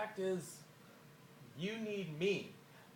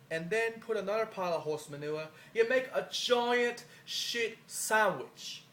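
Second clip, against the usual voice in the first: a lightly put-on British accent, slowing and louder at the end; 2 semitones higher, 3 dB louder than usual. To a British rival, a shaky attempt at a British accent. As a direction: try a rough British accent on the insult. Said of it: "if I butcher the British accent, I apologize".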